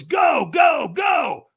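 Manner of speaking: high, loud repeated launch call; urgent shouting. Retold or imitated. Trainer sends walker onto the coals, urgent shouting. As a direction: send them off with a yell.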